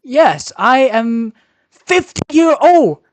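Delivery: broken English, put-on Chinese accent; fake Chinese accent. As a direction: play a fake Chinese man. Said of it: "Your accent is changing".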